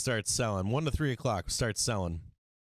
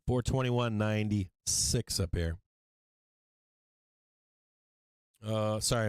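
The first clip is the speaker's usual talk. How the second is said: talking while munching peanuts; eating peanuts. Real, not acted. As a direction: mouth full of peanuts. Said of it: "I'm eating peanuts".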